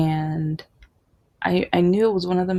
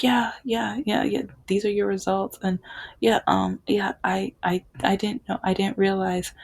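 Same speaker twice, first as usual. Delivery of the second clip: flustered, all over the place; 2 semitones higher than usual. Retold or imitated. Doctor giving results after years of blame, flustered. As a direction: hesitate and restart, stumbling through the admission. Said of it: "he was all over the place".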